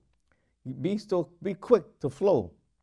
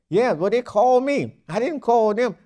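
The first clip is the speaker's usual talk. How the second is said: higher, louder indignant protest; mock objection; 6 semitones higher, 6 dB louder than usual. Preacher voicing a congregant who insists, raised and indignant. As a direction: push back like a wounded believer.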